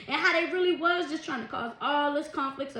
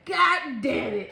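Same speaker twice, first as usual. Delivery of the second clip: drawn-out mock curse; 4 dB louder, much slower than usual. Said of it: "that's what I'm hearing somebody saying".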